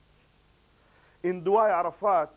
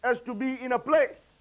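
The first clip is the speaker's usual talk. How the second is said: firm proclamation; 7 semitones higher, 5 dB louder than usual. Acted. Imam's answer voiced with force.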